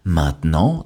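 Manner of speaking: "maintenant" as main-t'nant, T kept; silent E. Shown as a demonstration. Teacher gives learners a word to repeat, "maintenant" with silent E. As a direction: model "maintenant" in two syllables without the middle E. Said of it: "Le E de maintenant a complètement disparu".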